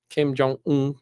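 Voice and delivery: a light mock Korean accent on Kim Jong-un. Shown as a demonstration. Telling his friend the name, with a light mock Korean accent. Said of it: "I put an emphasis on that accent".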